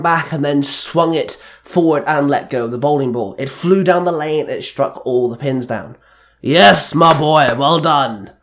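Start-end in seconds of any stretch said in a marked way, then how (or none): 6.4-8.3 loud cheer, easing off at the end; yelled praise. A narrator's reading. Mentor behind the bowler, yelling praise. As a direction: call out proud congratulations. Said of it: "Don yelled behind him".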